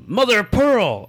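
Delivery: high, mock yelled expletive; Mister Krabs. Quoting a cartoon crab's favorite expletive, mock yell. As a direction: cry it out like a cartoon curse. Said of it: "Mister Krabs would yell".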